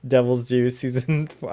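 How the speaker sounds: slurring a little, tipsy and giggly. Real, not acted. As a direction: talk like a few drinks too many. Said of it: "I'm really drunk right now".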